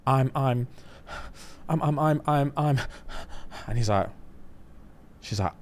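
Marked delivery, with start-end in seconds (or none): 0.1-2.8 halting, stammered mock confession; flustered, imitating. Bride struggling to get it out, mock flustered. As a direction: stumble breathlessly over the words, imitating her. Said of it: "starts crying, getting flustered".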